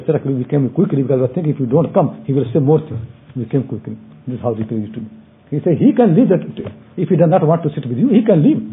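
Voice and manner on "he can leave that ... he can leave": higher, louder retold scolding; the Shaykh scolding, raised and firm; retold loud rebuke. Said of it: "said there very loudly".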